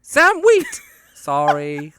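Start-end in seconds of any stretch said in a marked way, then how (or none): 0.0-0.8 shrieked name, much higher and louder, mock American; bad American accent. Will hamming up Oda Mae, screaming in a bad American accent. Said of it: "that's my bad American accent".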